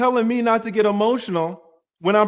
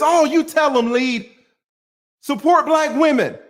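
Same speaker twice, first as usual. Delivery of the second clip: higher, loud mocking cheer; 9 semitones higher, 5 dB louder than usual. Mocking chat cheering her on for women, loud.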